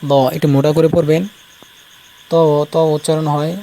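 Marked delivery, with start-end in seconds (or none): 2.3-2.3 ত said thick and heavy, Arabic ta; weight the ত like Arabic. Shown as a demonstration. Teacher shows students a heavy Arabic ত. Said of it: "ত একটু মোটা করে পড়বেন".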